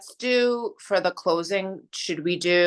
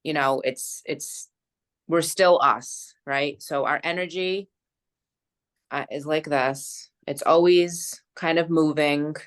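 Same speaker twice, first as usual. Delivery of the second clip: guided meditation. Acted. Friend guiding a closing energy visualization, calm meditation voice. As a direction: gently lead them through the visualization.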